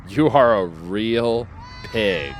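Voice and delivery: slow, deliberate imitation of the lady; slow mock scolding. Retelling the pooper clip, slowly imitating her insults. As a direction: spell out each insult. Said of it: "she says".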